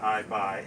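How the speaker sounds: plain "I buy", first word like "eye"; "I buy" mispronunciation. Shown as a demonstration. Showing visitors the wrong version, "I buy" starting with "eye". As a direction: say "I buy" with an opening "eye" sound. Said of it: "it's not".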